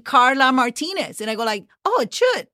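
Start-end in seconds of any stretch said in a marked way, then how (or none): 0.0-1.2 put-on Carla Martinez in an English accent; English-style untapped R in Carla Martinez; English pronunciation. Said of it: "discovered myself saying". 1.8-2.5 much higher pitched mock alarm; high-pitched, startled self-reproach; startled dismay. Acts out her own startled reaction.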